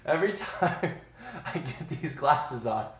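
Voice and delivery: words broken by giggles; a light laugh wearing the glasses. Real, not acted. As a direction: talk through the laughter. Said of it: "I can't stop laughing".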